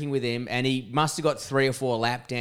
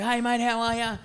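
cheery greeting; 9 semitones higher than usual. Retold or imitated. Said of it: "I was like".

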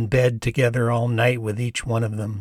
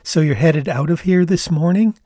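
put-on light Canadian accent, higher and brighter; young Canadian woman, casual and friendly; 5 semitones higher, 3 dB louder than usual. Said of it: "in her Canadian accent said".

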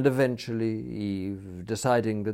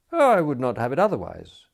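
louder, lifted and hearty; hearty assent; 6 semitones higher, 7 dB louder than usual. A narrator's reading. Smith assures the attendant, hearty. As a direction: agree wholeheartedly, with emphasis. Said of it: "assented Smith heartily".

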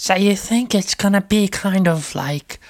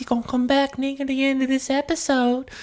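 Russ voice; 6 semitones higher than usual. Acted. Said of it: "My name's Russ".

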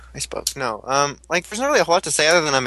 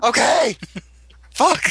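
laughing; 8 semitones higher, 3 dB louder, slower than usual. Real, not acted. Laughing exclamation.

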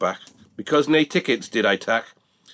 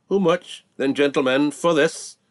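auctioneer call; 6 semitones higher than usual. Acted. Auctioneer pleading for bids.

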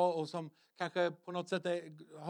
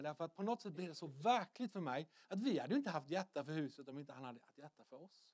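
ordinary delivery

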